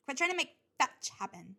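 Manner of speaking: loud, high sassy quote; quoting movie line. Retold or imitated. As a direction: toss it off like Regina. Mean Girls quote line.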